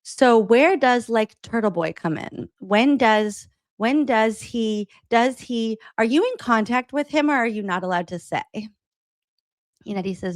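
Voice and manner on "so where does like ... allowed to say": halting false starts, slightly raised pitch; repeated restarts, then the question tumbles out; nervous stutter. Retold or imitated. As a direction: imitate someone fumbling for the question. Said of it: "starting to stutter and can't figure out".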